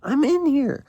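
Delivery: slow call from the floor; slow speech. A narrator's reading. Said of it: "I say slowly from the floor".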